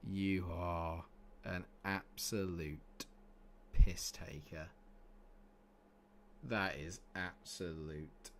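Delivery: very slow, low, deliberate words; exasperated disbelief. Real, not acted. Gamer cursing an untimely injury, slow low exasperation. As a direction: spell out the exasperation word by word, slowly. Striker injured after his substitution.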